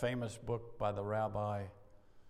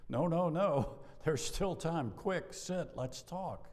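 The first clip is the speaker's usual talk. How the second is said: eager pleading; 5 semitones higher, slower than usual. Retold or imitated. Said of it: "I go".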